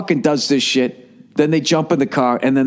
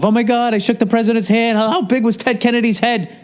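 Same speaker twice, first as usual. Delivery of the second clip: starstruck crowd; 8 semitones higher than usual. Retold or imitated. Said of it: "high off of".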